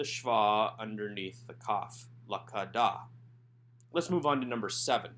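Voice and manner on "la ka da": la ka da split into separate syllables. Shown as a demonstration. Teacher sounding out la ka da for students. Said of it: "Instead, this is la ka da".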